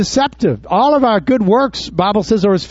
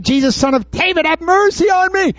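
imitated desperate scream; 8 semitones higher than usual. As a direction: cry out in a raised pitch, rising to the plea. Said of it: "he kept screaming".

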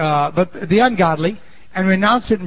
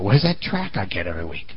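lower grumbling husband; 12 semitones lower, 6 dB quieter than usual. Retold or imitated. Husband voiced asking.

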